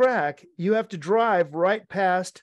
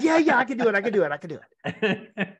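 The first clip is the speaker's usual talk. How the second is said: eager yes; 4 semitones higher, faster than usual. Retold or imitated. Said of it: "I would have said".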